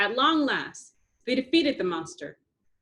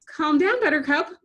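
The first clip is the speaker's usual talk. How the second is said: advising; 7 semitones higher, 6 dB louder than usual. A narrator's reading. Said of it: "Blossom advised".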